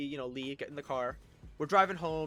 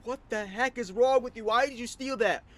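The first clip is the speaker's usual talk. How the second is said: high, loud angry mom; imitating a furious mother's shout; yelling; 8 semitones higher, 8 dB louder than usual. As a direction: yell at a child in outrage. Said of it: "she started yelling".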